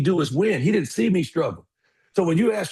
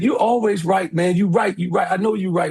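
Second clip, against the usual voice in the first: higher-pitched, mildly tearful retelling; imitated crying; 4 semitones higher, 3 dB louder than usual. Crying son apologizes to his dad, imitated crying. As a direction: imitate an upset son pleading, voice raised. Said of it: "He's bawling, crying".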